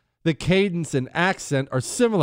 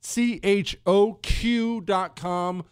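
slow ad read; 5 semitones higher, much slower than usual. Acted. Repeating the sponsor ad.

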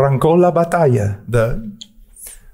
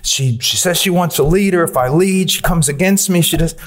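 mock complaining husband; 4 semitones higher than usual. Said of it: "Or the husband says".

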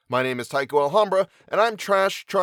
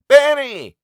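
very loud, high call; 13 dB louder than usual. Acted. Mother calling again for her son, very loud high call. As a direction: shout his name across the cornfield. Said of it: "she called again".

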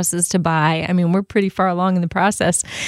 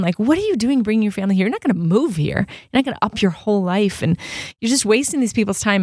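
retold freak-out; 3 semitones higher than usual. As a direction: replay the panic in your head, pitch climbing. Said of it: "kind of freaking out".

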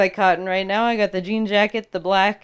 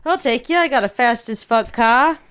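put-on Boston accent; 3 semitones higher than usual. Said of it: "My accent's all over".

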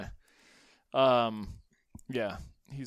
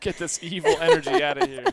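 mock exorcism shout; 14 semitones higher, 11 dB louder than usual. Jokingly banishing Christmas gnomes.

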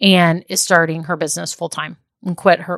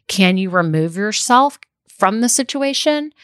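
ordinary delivery

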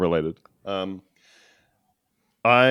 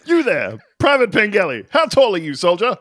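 higher, loud sergeant bark; drill sergeant shouting; 5 semitones higher, 3 dB louder than usual. Pretend. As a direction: call out the private like a drill sergeant. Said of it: "I'll be your drill sergeant".

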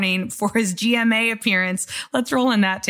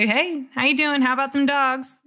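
higher, friendly passerby hello; friendly passerby greeting; 4 semitones higher than usual. Acted. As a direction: greet a fellow fan in passing. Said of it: "you're filling up your car at the gas station".

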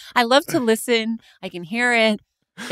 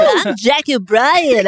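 Dutch DJ voice. Acted. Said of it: "Why did you sound like a Dutch D J?".

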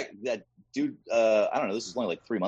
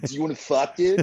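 sleazy snake come-on, pitched up; 6 semitones higher, 5 dB louder than usual. Retold or imitated. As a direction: play a slimy flirting snake. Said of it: "That's my impression of a snake".

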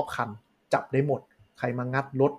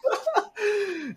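high-pitched burst of laughter; real laugh. Real, not acted. Amused by a friend's praise of the car, high laugh.

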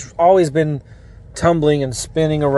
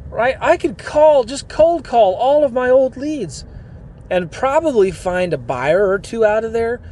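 higher, fired-up imagined listener, slowing on key lines; inspired listener; 4 semitones higher than usual. Pretend. Imagined listener deciding not to quit, higher and fired up. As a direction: play the listener who finally gets it. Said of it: "they're gonna say".

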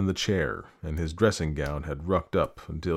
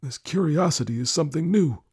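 put-on high-pitched sceptical old husband; suspicious old lord; 9 semitones higher than usual. Lord doubts his wife's curiosity, suspicious. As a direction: play a distrustful lord, pitched well up.

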